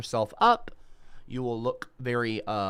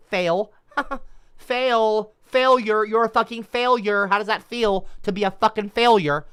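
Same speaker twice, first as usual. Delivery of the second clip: laughing then jeering, higher and louder; gloating taunt; 9 semitones higher, 8 dB louder than usual. Acted. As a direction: rub the failure in his face. Taunting after the robot failed.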